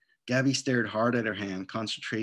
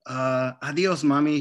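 quick goodbye; 3 semitones higher, 5 dB louder than usual. Acted. Girl brushing off mom.

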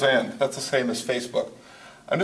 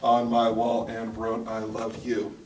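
reading the draft; 2 semitones lower, slower than usual. Shown as a demonstration. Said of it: "What do we have here?".

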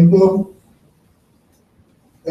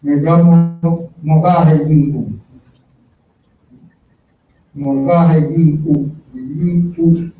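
slow, careful name; much slower than usual. Real, not acted. Elder introducing himself to the gathering, slowly and clearly. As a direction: spell out his name slowly, syllable by syllable. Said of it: "voy a repetir".

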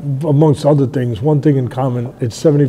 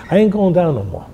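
determined fighter; 6 semitones higher than usual. Retold or imitated. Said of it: "He says in the corner".

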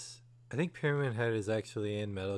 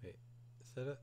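whispering; 3 semitones lower, 15 dB quieter, much faster than usual. Real, not acted. Hushed while watching enemy.

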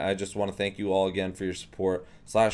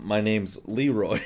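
retold deadpan introduction; dead serious. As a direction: say it straight-faced, as if it were true. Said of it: "just dead serious face".

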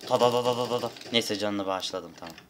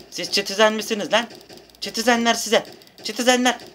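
high, loud jeering at enemies; mock the citizens with a high yell; taunting yell; 11 semitones higher, 5 dB louder than usual. (yüksek sesle alaycı bağırış)

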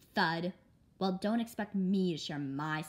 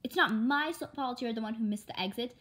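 louder, higher protest; defensive; 4 semitones higher, 3 dB louder than usual. Acted. Daughter arguing with her mother about the exit, defensive. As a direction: push back at her.

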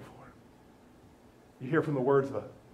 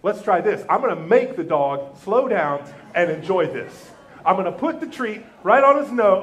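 mock-patient dog owner; 2 semitones higher, 8 dB louder than usual. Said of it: "We say".

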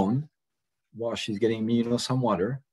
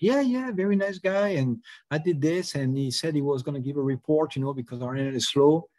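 high, light voice of a cheerful employee; a friendly clerk innocently recounting the visit; chatty employee; 5 semitones higher than usual. Retold or imitated.

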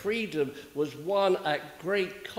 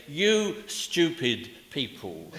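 mock scolding; slower than usual. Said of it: "beginning by saying".

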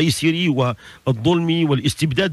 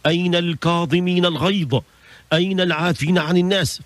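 raised-pitch calling of a herald; 3 semitones higher than usual. Acted. A herald summons those who forgive people, calling out. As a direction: call out the summons in a lightly acted voice. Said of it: "ينادي مناد".

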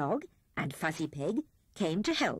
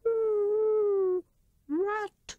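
high, hooting owl voice; gruff Wise Owl; 14 semitones higher, 5 dB louder than usual. A narrator's reading. Owl answering the thief Rat, gruff and hooting. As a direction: hoot it out like a grumpy old owl. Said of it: "said he gruffly".

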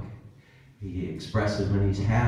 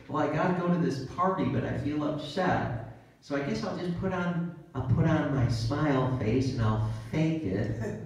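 higher, quick fretful voice; mock party-goer; 5 semitones higher than usual. Preacher imitating someone dreading a party, fretful. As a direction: act out someone psyching up to fake it. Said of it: "Fake it till you make it".

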